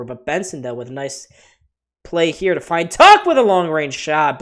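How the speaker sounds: lively hockey play-by-play call. Acted. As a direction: call the action as it happens. Live play-by-play of the game.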